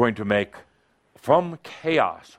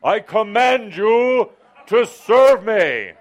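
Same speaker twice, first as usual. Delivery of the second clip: commanding; 8 semitones higher, 6 dB louder, slower than usual. Acted. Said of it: "one last time".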